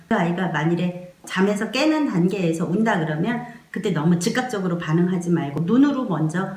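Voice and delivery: normal talking voice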